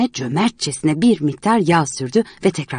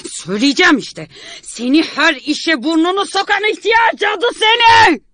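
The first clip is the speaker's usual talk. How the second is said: higher and louder insults; furious shout; 13 semitones higher, 3 dB louder than usual. Acted. Painter calling Miss Martha an old witch, furious shout. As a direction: scream the insult at her. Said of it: "diye haykırıyordu".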